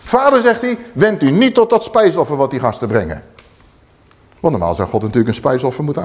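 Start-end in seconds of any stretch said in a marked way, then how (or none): 0.0-3.2 forceful Moses. Acted. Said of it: "Zo krachtig zegt Mozes dit".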